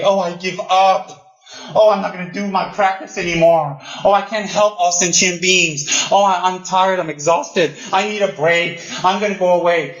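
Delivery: a hint of self-pity, played for show; mock whining. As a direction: sigh out the excuses like a worn-out student. Mocking tired practitioner.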